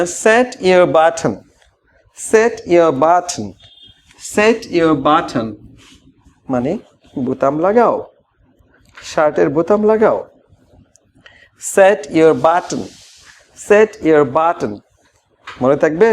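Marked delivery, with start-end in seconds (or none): 0.0-5.6 tie your tie stretched out very slowly; slow model phrase. Shown as a demonstration. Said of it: "এখন থেকে বলবেন". 11.8-14.8 tie your tie stretched out very slowly; slow model phrase. Shown as a demonstration. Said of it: "slow model phrase".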